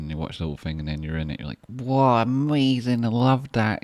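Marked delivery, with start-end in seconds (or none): 1.7-3.8 high, loud gasp of delight; mock gushing delight. Streamer acting out waking up to the video, gushing. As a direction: gush over it as if seeing yourself on screen. Imagined reaction to seeing video.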